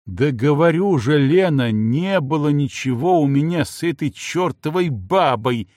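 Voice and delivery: громкое отчаянное оправдание; почти взвой от бессилия; чуть не взвыл. Acted. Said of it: "чуть не взвыл". (Егор в отчаянии оправдывается перед женой)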